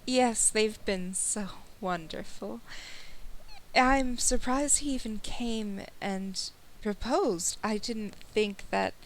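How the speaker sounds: lightly voiced French accent, mostly the GM's own voice; a half-hearted French accent for the noble lady; bad French accent. GM playing the noble lady at lunch, in a weak French accent. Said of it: "Can you tell I can't fucking do a French accent".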